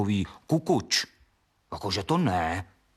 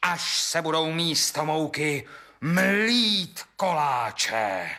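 mocking refusal; 8 semitones higher than usual. Miller mocks wife in quarrel.

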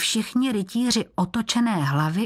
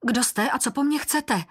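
cried out; 7 semitones higher than usual. Acted. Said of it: "vykřikl Martin".

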